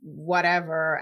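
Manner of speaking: dismissive, condescending brush-off; lightly mocked condescension, drawn out. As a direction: imitate someone condescendingly waving it away. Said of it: "condescendingly try to be like".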